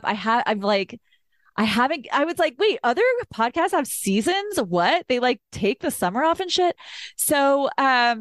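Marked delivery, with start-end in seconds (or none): 2.6-6.8 mildly incredulous, pitched up; mock surprise. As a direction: replay a startled realisation. Acting out her own surprised realisation.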